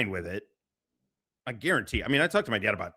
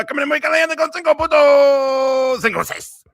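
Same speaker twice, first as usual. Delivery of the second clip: shouting; 13 semitones higher, 8 dB louder than usual. Acted. Hyping a streamer entrance.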